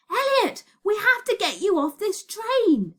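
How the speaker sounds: high, urgent cry; panicked scream. A narrator's reading. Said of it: "screamed Virgo".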